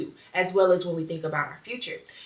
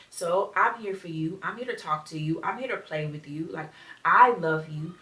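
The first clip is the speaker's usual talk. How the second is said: put-on soft, gentle reassurance to a lonely child; quiet loving words to the child inside; tender self-talk; 4 dB quieter than usual. Shown as a demonstration. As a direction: speak softly as if comforting your younger self. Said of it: "Like, saying this to myself".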